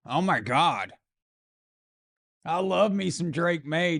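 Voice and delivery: lightly voiced gushing broadcaster; a hint of a smitten TV color man; Chris Collinsworth impression. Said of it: "I can hear Chris Collinsworth".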